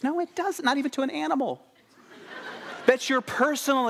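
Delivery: high-pitched comic contradiction; hammed-up incredulous rebuttal; mock indignation. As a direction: squeal the objection in pretend disbelief. Comic rebuttal of audience opinion.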